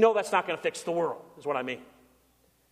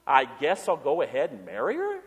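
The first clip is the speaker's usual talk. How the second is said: incredulous echo; 4 semitones lower than usual. Shown as a demonstration. Pastor mocking the half-hearted groom, incredulous rising echo. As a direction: hand the groom's words back as a doubtful question. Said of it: "There's a lucky bride, huh?".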